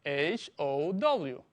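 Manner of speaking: slow letter-by-letter repeat; spelling out. Shown as a demonstration. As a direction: dictate each letter slowly. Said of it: "Te lo repito".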